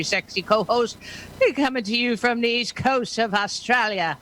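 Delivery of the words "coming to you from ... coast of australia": a hint of badly faked Aussie; attempted Aussie accent. Host introducing her Australian co-host, attempted Aussie accent. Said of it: "your attempt at an Aussie accent".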